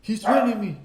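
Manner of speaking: high, loud, whining tattletale with a laugh breaking through; mocking the coworker's high, loud tattling; whiny coworker crying foul. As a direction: play the big guy tattling to the boss, loud and shrill with giggles. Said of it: "he tells my coworker".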